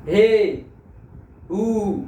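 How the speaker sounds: long drawn-out call to someone; stretched calling shout; calling out loud. Shown as a demonstration. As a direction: hail someone from afar. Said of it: "किसी को पुकारने के लिए अपन जोर से आवाज लगाते हैं".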